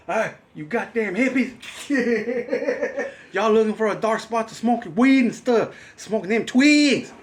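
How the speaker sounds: high-pitched hammed-up old man yelling at hippies; mock angry yelling. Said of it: "and he's like".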